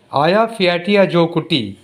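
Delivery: "Aya Fiatia Jokutti", said as one careful name; demonstrated pronunciation. Shown as a demonstration. Teacher repeating the correct name for the class, careful pronunciation. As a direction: model "Aya Fiatia Jokutti" with T sounds, ending on "tee". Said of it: "This is pronounced as".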